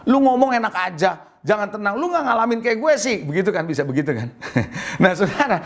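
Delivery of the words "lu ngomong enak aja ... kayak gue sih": annoyed retort. Retold or imitated. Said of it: "Anda akan bilang apa?".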